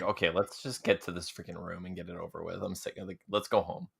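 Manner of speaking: fed up. Acted. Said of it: "just like".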